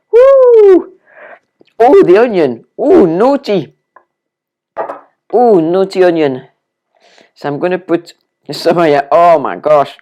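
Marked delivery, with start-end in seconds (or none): 0.1-0.9 loud high yelp of onion sting; real yelp as the onion burns; loud woo. Real, not acted. 1.8-6.5 playful scolding. Pretend.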